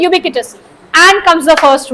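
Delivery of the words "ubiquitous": Ubiquitous as yoo-BIK-wi-tus; teacher modelling Ubiquitous as yoo-BIK-wi-tus; ubiquitous said right. Shown as a demonstration. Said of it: "क्या बोलते हैं हम इसे?".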